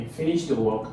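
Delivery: no lift on "work", just a statement; statement of confirmation. Shown as a demonstration. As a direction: confirm "you finish the work" with a low ending. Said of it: "simple statement of confirmation".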